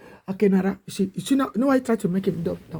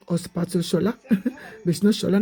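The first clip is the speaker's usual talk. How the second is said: laughing. Real, not acted. Speaker laughing at his own mix-up over the name. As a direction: laugh as you correct yourself.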